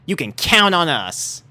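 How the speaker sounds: high, firm Rainbow voice; brave. A narrator's reading. Rainbow promising AJ she'll care for pups, brave. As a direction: steel herself and answer bravely. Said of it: "she spoke bravely".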